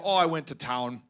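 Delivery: low, understated Minnesotan voice; mock Minnesotan small talk, pitched low; Minnesotan accent. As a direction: answer like a laconic Minnesotan. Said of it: "you would ask a normal Minnesotan".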